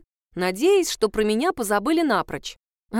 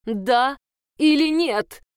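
demanding teacher; 4 semitones higher, 4 dB louder, slower than usual. Acted. Teacher interrogating pupil.

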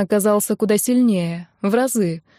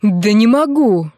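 slow, louder shout; 5 dB louder, slower than usual. Acted. Young man loses his cool and shouts at the girl, slowly. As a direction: drag out the shouted refusal. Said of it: "закричал вдруг и Матвей".

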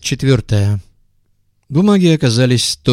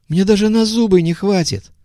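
high-pitched protest; 10 semitones higher than usual. A narrator's reading. Visitor outraged, high voice.

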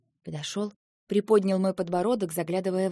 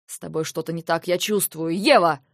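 worried urging; 8 dB louder than usual. Acted. Lentar worried about Eva.

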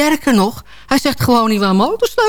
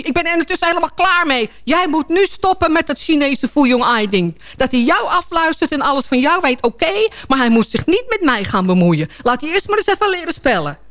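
higher-pitched imitated indignation; exploding husband; 5 semitones higher than usual. Husband demands the gadget goes, acted outburst. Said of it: "hij ontplofte werkelijk".

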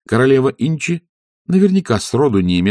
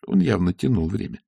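plain reading voice

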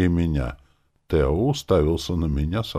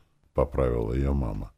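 ordinary delivery

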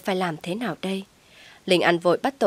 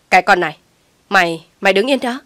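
loud command to stop; angry shout; 8 dB louder, faster than usual. Acted. Mother orders daughter not to leave, shouting. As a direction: shout her to stay put.

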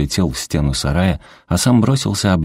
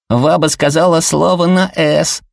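put-on high, gleeful kid's voice; boy gleefully telling on her; teasing child; 12 semitones higher, 4 dB louder than usual. A narrator's reading. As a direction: tattle on grandma with delight. Kids tease grandma over swearing.

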